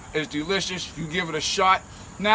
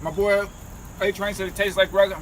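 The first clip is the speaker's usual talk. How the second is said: mouth full. Real, not acted. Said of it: "talking with a mouthful".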